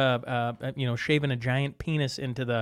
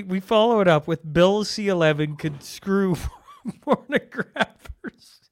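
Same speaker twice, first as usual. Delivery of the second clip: laughing through it; 4 semitones higher than usual. Real, not acted. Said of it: "I'm sorry, how did you pronounce that?".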